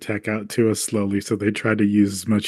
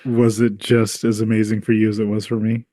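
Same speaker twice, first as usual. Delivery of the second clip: dry, sarcastic question; 3 semitones lower than usual. Real, not acted. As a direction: ask it with heavy sarcasm.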